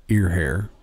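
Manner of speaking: low, quiet deadpan voice of the big boss; mock boss voice. Boss telling the young worker the secret, low and smug. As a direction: drop it low like a smug executive. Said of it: "And he goes".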